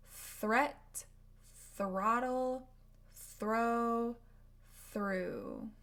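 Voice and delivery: Threat, throttle, Throw, through said briskly. Shown as a demonstration. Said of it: "words you can practice".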